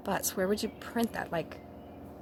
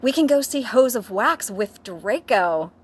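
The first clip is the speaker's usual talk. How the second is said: giggly excitement; 4 semitones higher, 5 dB louder than usual. Acted. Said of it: "giggled Vampire".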